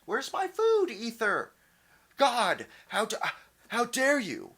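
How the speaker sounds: hammed-up entitled yelling at the sky; mock scream at the ether. Man mocking someone yelling at the sky for food, loud, high mock outrage. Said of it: "scream at the ether".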